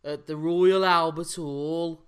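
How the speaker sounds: played-up Black Country accent, as if presenting. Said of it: "in that accent".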